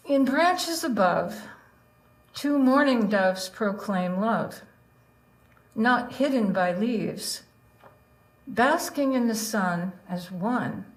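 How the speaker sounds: slow, deliberate poetry reading; poem reading. Acted. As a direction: read each line as an image. Reads her tanka aloud.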